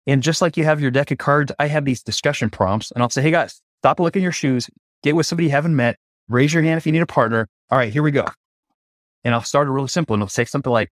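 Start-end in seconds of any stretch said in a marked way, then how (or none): 3.2-8.2 higher, energetic call to a crowd; rally the group like a hike leader. Retold or imitated. Facilitator calling out to a group of CEOs, upbeat.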